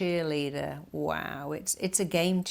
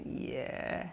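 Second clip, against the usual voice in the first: mocking little voice; 6 dB quieter than usual. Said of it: "the little voice going".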